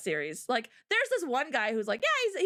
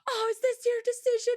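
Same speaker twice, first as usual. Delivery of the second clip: higher, quick mock question; mock sly question; 11 semitones higher, 3 dB louder, faster than usual. The woman questions Inuyasha, higher mock tone. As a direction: tease him with it. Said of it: "The woman's like".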